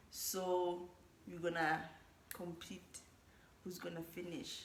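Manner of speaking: low, slow, half-whispered and listless; bored. Real, not acted. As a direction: drag through it with no energy. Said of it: "I sound so bored".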